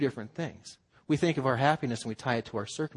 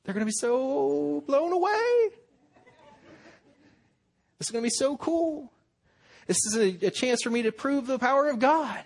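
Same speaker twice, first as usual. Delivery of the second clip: mock excited self; 10 semitones higher than usual. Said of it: "I'd be like".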